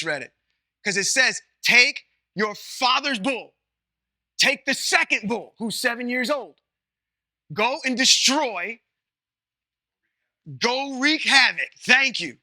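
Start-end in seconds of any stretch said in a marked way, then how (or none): 1.6-11.7 commanding voice of God. Acted. Paraphrasing God's command dramatically.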